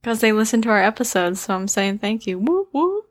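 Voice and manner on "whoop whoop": high, playful double whoop. Shown as a demonstration. Host thanking listeners for tuning in, high whoop whoop. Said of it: "why did you give a whoop whoop".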